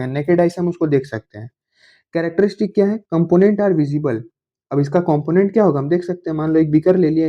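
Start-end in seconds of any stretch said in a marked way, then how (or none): 3.1-4.2 reading a definition out word by word, slowly; slow dictation. Shown as a demonstration. Teacher dictating a definition to the class, very slowly. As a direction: dictate it slowly so students can copy.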